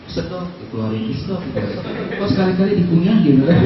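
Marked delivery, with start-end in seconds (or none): 0.1-2.2 hushed, mimicking drags on a cigarette; soft, breath-held puffing demonstration; mimed smoking puffs. Preacher acts out the smoker he watched, hushed mimicry.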